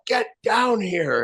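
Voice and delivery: high drawn-out call from downstairs; mock yell for the son to come down; retold yell. Father calling his son downstairs, a mock drawn-out yell. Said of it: "he'd scream and yell".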